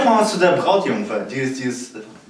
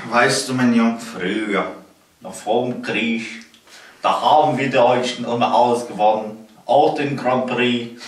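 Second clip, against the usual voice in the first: put-on old man voice; 4 semitones lower than usual. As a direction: play a rambling old grandpa. Old man reminiscing about war.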